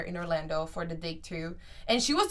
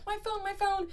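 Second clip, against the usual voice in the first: retold crying plea; 13 semitones higher than usual. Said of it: "I start crying".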